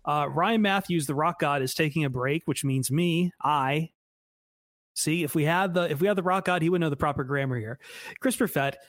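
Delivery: out of breath from jogging; winded, catching breath between phrases; gasping for air. Real, not acted. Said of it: "If I sound winded, it's because I am".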